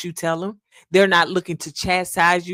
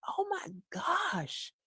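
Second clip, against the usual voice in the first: high, slow, breaking cry; overcome; 11 semitones higher, 15 dB quieter, slower than usual. Real, not acted. Preacher lamenting people without empathy, voice breaking. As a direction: let the voice crack with feeling.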